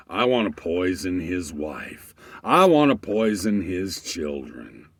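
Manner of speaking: building rant. Retold or imitated. Ranting guy builds up.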